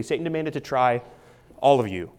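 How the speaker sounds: "all of you" set apart after a pause; stress on ALL. Shown as a demonstration. Explaining the plural you to listeners, stress on "all". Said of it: "that's a plural".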